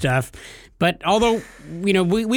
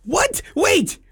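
high startled what, then wait; real surprise; 14 semitones higher than usual. Real, not acted. Cohost stunned by news of a new sponsor, squeaking high. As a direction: caught off guard, voice jumping up high. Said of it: "We have a new sponsor".

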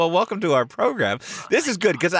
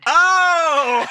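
laughing; 14 semitones higher, 4 dB louder than usual. Real, not acted. Host cracks up.

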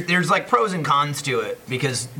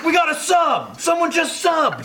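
much higher, laughing hype callout; excited streamer; 14 semitones higher, slower than usual. Retold or imitated. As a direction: shout out a new sub with glee. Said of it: "a new, like, Twitch line".

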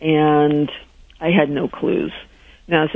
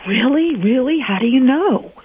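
higher, eager questions; excited disbelief; 8 semitones higher than usual. Retold or imitated. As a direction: grab at the hope. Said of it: "I'm like".

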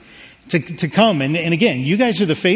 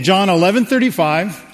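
calling out to the congregation; 2 semitones higher than usual. Shown as a demonstration. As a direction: say it out big so all join in. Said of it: "Everybody say it".

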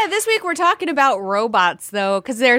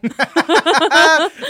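laughter; 3 semitones higher, 6 dB louder than usual. Real, not acted. Co-host laughs at intro.

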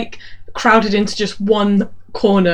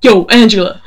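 loud cocky pickup line; cheesy greeting; 4 dB louder than usual. Retold or imitated. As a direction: call out to her like a smooth operator. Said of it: "starts every conversation with her".

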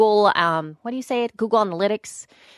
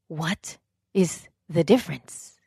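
baffled; 4 semitones lower, 4 dB quieter, slower than usual. Retold or imitated. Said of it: "And I was like".

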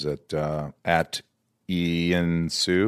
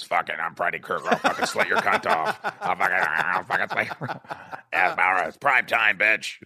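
laughing Freddy doll voice, half-voiced; pull string toy; 3 semitones lower than usual. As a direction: play the talking Freddy doll. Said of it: "pull the string and it goes".

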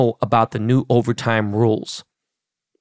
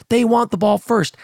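imitated yelling; 10 semitones higher than usual. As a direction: repeat it as a high, retold shout. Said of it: "He's yelling".

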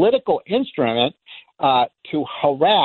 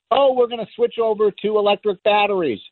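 higher-pitched mock enthusiasm; mocking imitation; 5 semitones higher than usual. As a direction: parrot a naive advocate, pitched up. Mocking battery advocates.

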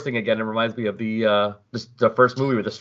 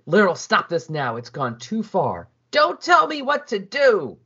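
mild yelling; 8 semitones higher, slower than usual. Acted. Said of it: "she starts yelling at her kid".

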